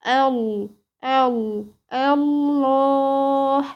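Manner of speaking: very slow الله with tafkhim on the doubled ل; heavy lam. Shown as a demonstration. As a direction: build up to a chanted الله with a thick ل. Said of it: "فاللفظ هنا هيبقى مغلظ".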